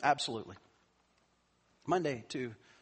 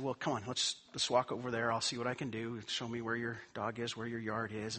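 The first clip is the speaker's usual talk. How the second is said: softer, calm and reassuring; 4 semitones lower, 4 dB quieter than usual. Retold or imitated. Pastor calmly answering the angry neighbor, soft and reassuring. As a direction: soothe her down gently. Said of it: "I was very calm".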